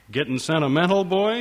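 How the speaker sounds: father probing his son, wary and teasing; suspicious father. Acted. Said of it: "says his father suspiciously".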